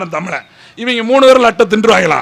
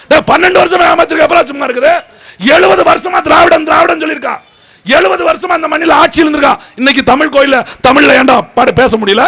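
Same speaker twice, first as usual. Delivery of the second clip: angry outburst; 6 semitones higher than usual. Real, not acted. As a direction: hurl it at them, fuming. Rally speech, angry outburst.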